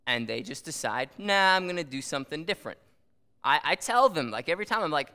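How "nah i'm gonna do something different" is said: quick, higher brush-off; mock dismissive student. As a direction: imitate a student shrugging off instructions. Voicing students who ignore instructions.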